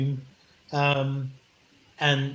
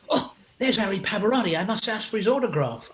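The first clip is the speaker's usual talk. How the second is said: higher voice for an excited woman; woman spotting celebrity; 4 semitones higher than usual. Retold or imitated. Woman spotting Harry Pavarotti, lightly imitated excitement. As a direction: lightly imitate an eager autograph hunter. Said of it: "suddenly heard this woman go".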